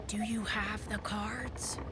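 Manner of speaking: hushed whisper. Acted. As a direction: keep it hushed while hiding. Whispering in the closet.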